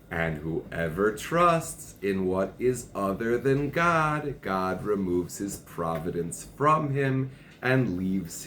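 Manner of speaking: slow, deliberate reading aloud; emphatic text reading. Acted. Teacher reads the passage on trust to partner, slow and emphatic. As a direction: read it out phrase by phrase, weighing each.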